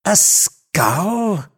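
high-pitched amazed echo; astonished exclamation. A narrator's reading. Legrand hearing of the find, high astonished exclamation. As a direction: repeat it in astonishment. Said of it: "exclaimed Legrand".

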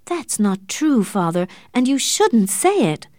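high-pitched angry protest; angry shout. A narrator's reading. Daughter contradicting her father about Morris, angry shout. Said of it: "Catherine shouted angrily".

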